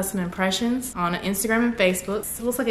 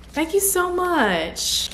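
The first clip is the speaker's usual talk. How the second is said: higher, slow, drawn-out thanks; tender drawn thanks; 9 semitones higher, much slower than usual. Real, not acted. YouTuber thanking a fan for a notepad, slow tender thanks. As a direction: let it melt slowly. Touched by gift.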